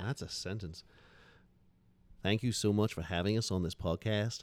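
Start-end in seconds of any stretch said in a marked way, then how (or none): 2.2-4.4 put-on slow, careful standard American accent. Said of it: "more of a standard accent".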